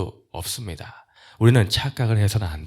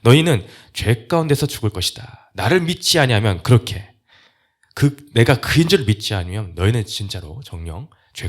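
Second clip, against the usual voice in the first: raised, louder insistent warning; emphatic warning; 3 semitones higher, 6 dB louder than usual. Retold or imitated. Preacher restating Jesus' warning of dying in sin, emphatic and raised. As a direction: press each clause on the listener. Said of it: "강조하여 확실하게 못 박아서".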